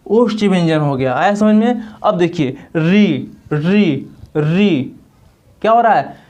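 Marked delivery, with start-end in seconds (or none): 2.0-5.0 री said slowly, tongue on the roof; री demonstrated. Shown as a demonstration. Teacher demonstrating री for the students. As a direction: sound out री slowly. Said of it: "मूर्धा पर जोर जा रहा है".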